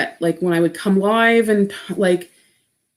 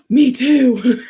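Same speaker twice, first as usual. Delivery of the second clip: laughing; 3 semitones higher, 4 dB louder than usual. Retold or imitated. Agreeing with mom, laughing.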